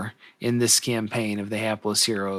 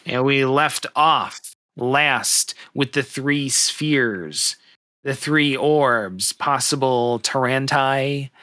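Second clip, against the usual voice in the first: slow, deliberate scene setting with weighty pauses; game master recap; slower than usual. Acted. Game master recapping last session to the players, slow narration. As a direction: lay out each phrase slowly, pausing between.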